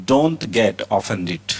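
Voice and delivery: each word stretched out; very slow model reading. Shown as a demonstration. Teacher reads the phrase very slowly to students. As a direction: stretch it out for learners. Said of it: "teacher models phrase".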